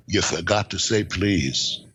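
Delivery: low, slow and deadpan; dry biker reply. Retold or imitated. Biker deadpanning back at Terminator, low and slow. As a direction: let it land slowly, unimpressed. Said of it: "He says".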